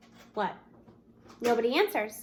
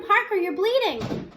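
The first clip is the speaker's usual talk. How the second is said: 1 alarmed cry; 5 semitones higher, 4 dB louder, slower than usual. Acted. Teacher alarmed at bleeding boy.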